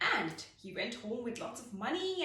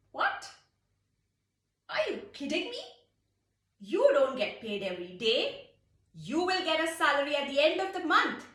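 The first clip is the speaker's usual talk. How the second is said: high, loud mocking disbelief; incredulous commander; 6 semitones higher, 7 dB louder than usual. Commander laughing off the soldier's pay demand, incredulous. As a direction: scoff at the soldier's request.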